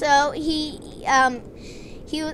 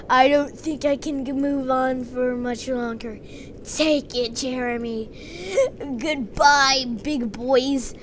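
dying farewell. Acted. Dying friend's last words to Jeremy.

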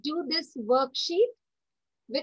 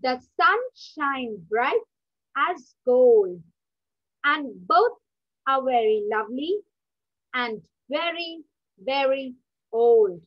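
poem recitation. Acted. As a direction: recite each phrase with pauses. Teacher recites poem to class.

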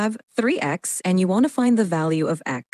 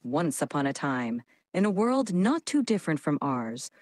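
dramatic storytelling; 3 semitones lower, 5 dB quieter than usual. Shown as a demonstration. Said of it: "Let's add some drama".

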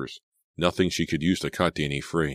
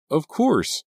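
urgent reply; 13 semitones higher, 6 dB louder than usual. A narrator's reading. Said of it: "Selina replied".

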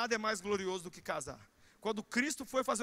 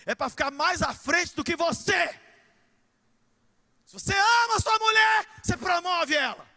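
loud, high preaching shout; preaching at full force; 6 semitones higher, 9 dB louder than usual. Real, not acted. Pastor shouting at husbands to promote their wives. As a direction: cry it out to the husbands.

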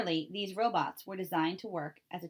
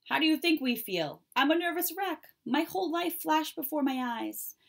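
much higher and louder, a frantic cow; panicked cow; 9 semitones higher, 5 dB louder than usual. Acted. Cow answering the robot after the tornado, frantic and loud. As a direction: cry it out like a rattled farm cow. Voices the frightened cows.

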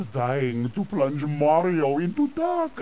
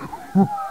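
short evil chuckle; mocking villain laugh; 4 semitones higher than usual. Villain mocks Luigi about his brother, short laugh. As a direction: laugh briefly at the hero's loss.

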